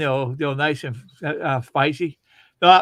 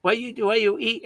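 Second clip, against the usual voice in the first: a hint of the restaurant owner, raised and softer; lightly voiced owner scolding a customer; 4 semitones higher, 3 dB quieter, slower than usual. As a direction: owner telling off a smelly diner, mildly mimicked. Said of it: "the owner come over and he goes".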